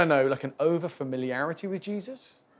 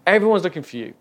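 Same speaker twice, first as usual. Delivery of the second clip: raised voice, short of a shout; milder exclamation; 2 semitones higher, 6 dB louder, faster than usual. Acted. Disciples come in to find Jesus, milder exclamation. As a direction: call it out firmly, holding back the yell. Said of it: "they exclaim".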